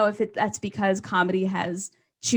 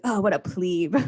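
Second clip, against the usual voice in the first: mock insult. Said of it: "I'll be like".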